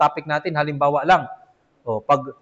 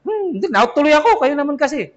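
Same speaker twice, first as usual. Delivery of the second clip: high mock complaint; whiny child; 7 semitones higher, 3 dB louder than usual. Preacher mimics a child blaming his parents, high and whiny.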